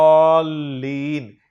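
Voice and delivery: अद्दॉलीन said slowly and firmly as ad-dālīn, doubled d, long ā; slow Quranic demo. Shown as a demonstration. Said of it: "तो लाम को नहीं पढ़ेंगे".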